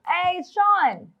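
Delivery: slow, high mocking echo. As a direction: parrot it back high and slow. Repeating caller's words, mocking.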